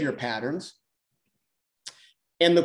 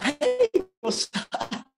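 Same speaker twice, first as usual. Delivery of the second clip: much higher, slow, sing-song hey; others greeting back; much slower than usual. Acted. The other person answers the greeting, high and drawn-out. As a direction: stretch out a delighted hey. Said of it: "And they're like".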